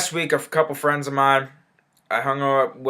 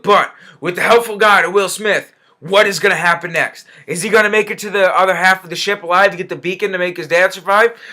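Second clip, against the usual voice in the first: raised, hammed-up cliffhanger recap; mock-dramatic plot teaser; mock suspense; 3 semitones higher than usual. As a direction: pretend the outcome is a great mystery.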